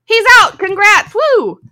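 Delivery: high, bright cheering; excited cheering. Retold or imitated. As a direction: cheer like a fan. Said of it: "they're gonna be like".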